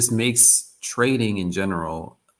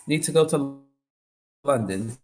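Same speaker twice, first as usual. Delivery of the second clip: loud, higher, hammed-up half-London accent; mock London accent; 5 semitones higher, 6 dB louder than usual. Streamer joking he'll move to London, mock London accent. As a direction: play a cheeky Londoner wanting London, bruv. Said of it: "half London impersonation".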